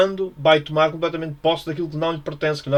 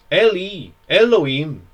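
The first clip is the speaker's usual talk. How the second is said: higher and louder anguished call; crying out; 4 semitones higher, 6 dB louder, slower than usual. Acted. Jesus calling to God from the cross, loud. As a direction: call out to the Father. Jesus's cry read again.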